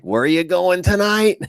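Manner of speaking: high-pitched imitation of a questioning wife; suspicious wife. Wife questioning husband about tonight, mock high voice. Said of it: "my wife will be like".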